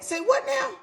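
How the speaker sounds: stunned outrage at his answer; shocked disbelief. Retold or imitated. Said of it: "So I'm screaming".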